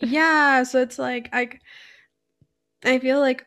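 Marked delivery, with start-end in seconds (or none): 2.8-3.4 words broken by a burp. Real, not acted. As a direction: talk through a coffee burp. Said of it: "oh, sorry, I'm burping a lot".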